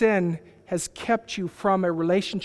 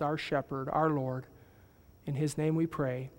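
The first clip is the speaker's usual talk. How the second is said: prayer; 2 semitones lower than usual. Real, not acted. Closing prayer.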